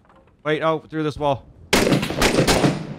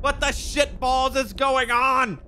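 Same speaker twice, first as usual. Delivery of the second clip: disbelief; 11 semitones higher, slower than usual. Real, not acted. After dying in game.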